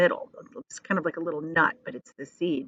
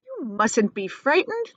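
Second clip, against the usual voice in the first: kindly; 6 semitones higher than usual. Acted. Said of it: "said kindly".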